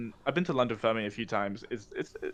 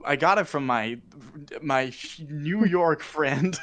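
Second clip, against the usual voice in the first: put-on American accent; 3 semitones higher than usual. Answering in an accent game, mock American accent. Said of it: "you do your American accent".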